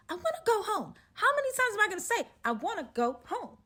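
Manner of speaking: high, fast pleading; retelling her desperation, high and fast; frantic whine. Retold or imitated. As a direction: beg to go home, climbing high. Desperate to leave.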